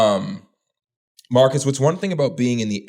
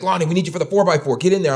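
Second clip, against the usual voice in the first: mock coach yell; 8 semitones higher than usual. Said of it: "the coaches are yelling at me".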